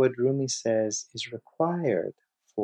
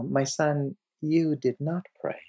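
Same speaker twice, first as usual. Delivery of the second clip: gentle, mildly loving correction; 4 semitones higher than usual. Retold or imitated. Rumi to the man who came to him, gently loving. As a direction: tell him tenderly, as a teacher would. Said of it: "looks at him very lovingly and says".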